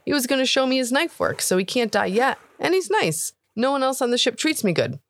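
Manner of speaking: put-on high, earnest young voice; a kid begging to be heard; boy pleading with the cook, high earnest voice; pleading orc boy. Boy pleads for his friend.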